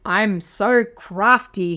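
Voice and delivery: slow smug wolf chuckle; chuckling wolf. Acted. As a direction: gloat slowly over your trick. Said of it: "he chuckled".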